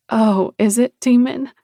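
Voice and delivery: playful, high teasing lilt; teasing breathy. Acted. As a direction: tease him, light and breathy. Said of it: "she asked in a teasing, breathy voice".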